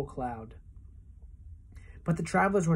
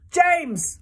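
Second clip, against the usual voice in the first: much higher, louder bawled name; bawling; 13 semitones higher, 8 dB louder than usual. A narrator's reading. Centipede bawls to James for help, high and loud. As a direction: bawl for rescue. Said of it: "bawled the centipede".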